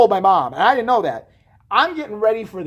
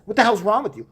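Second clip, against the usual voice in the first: mildly raised scolding question; retold scolding; 2 semitones higher than usual. Mom going off on the bully, contained scolding. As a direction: imitate a mom telling someone off. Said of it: "going off on her".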